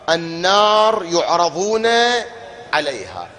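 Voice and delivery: slow chanted verse; Quran recitation. Acted. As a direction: recite it slowly and melodically.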